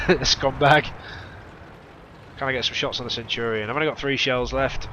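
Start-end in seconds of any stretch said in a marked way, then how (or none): 0.0-0.9 slow, laughing "scumbag"; laughing scorn. Real, not acted. Kill stolen again.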